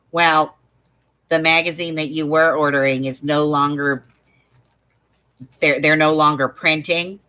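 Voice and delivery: imitating an unenthusiastic phone agent; lightly mock a joyless service script; snarky.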